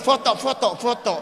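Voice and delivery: high, loud hurried call for photos; excited call for photos. Retold or imitated. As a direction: shout foto foto foto at the manager. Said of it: "langsung bilang sama manajer". (memanggil manajer dengan keras dan tinggi: foto, foto, foto)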